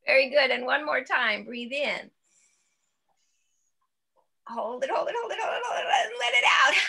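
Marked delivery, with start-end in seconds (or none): 4.5-6.7 high, squealing giggle breaking through; laughing through the words. Real, not acted. Teacher cues the breath hold while laughing, high squealing giggle. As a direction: try to hold it but laugh anyway. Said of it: "giggle molecules".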